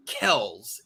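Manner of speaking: Kells said as one syllable; correct pronunciation. Shown as a demonstration. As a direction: say "Kells" to rhyme with bells. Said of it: "is the way that it's pronounced".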